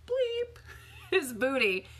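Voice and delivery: high yelp of the bleep, then a laugh; laughing self-censor. Real, not acted. Trainer laughing as she swaps a rude word for booty. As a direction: catch yourself and giggle.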